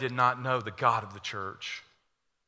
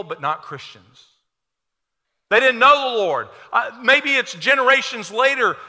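louder, high-pitched preaching with punched words; full-force preaching; 5 semitones higher, 9 dB louder than usual. Acted. Preacher exhorting his congregation: full-voiced, fervent preaching. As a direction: drive it home from the pulpit.

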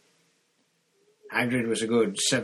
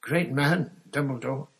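louder, choked-up giant; tearful praise; 5 semitones higher, 3 dB louder than usual. Acted. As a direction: burst out in tearful gratitude.

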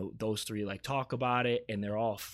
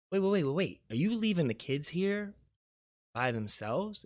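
retold alarm, pitched higher then easing down; alarmed question; 6 semitones higher than usual. Mom stopping aunt who is leaving, alarmed question. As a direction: imitate a startled objection.

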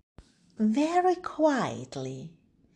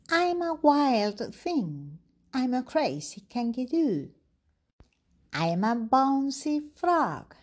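put-on lightly raised, bouncy child voice; excited little boy. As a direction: play the wild little boy jumping about. Wilf the child bouncing about.

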